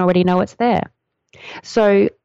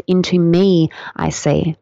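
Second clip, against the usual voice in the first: slowed wordplay; slower than usual. Shown as a demonstration. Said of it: "which in Tantra we say is".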